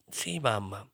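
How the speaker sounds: promising. A narrator's reading.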